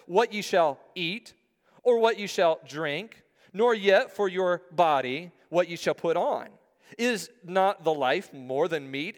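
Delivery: measured pulpit reading; scripture reading. Acted. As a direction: read the verses out to a congregation. Reads scripture aloud to congregation.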